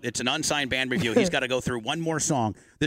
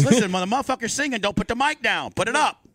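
Imitating a singer; 6 semitones higher than usual. Pretend. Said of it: "and then Shaggy says".

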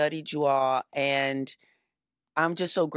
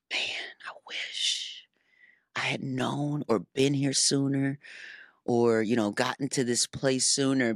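whispered wish to have come sooner; wistful inner thought; 2 semitones lower than usual. Retold or imitated. Guest voicing a private regret about her late start, whispered. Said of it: "moments of".

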